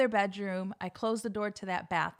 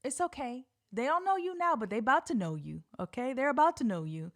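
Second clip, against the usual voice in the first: self pep talk; 3 semitones higher than usual. Retold or imitated. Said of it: "to myself in my head".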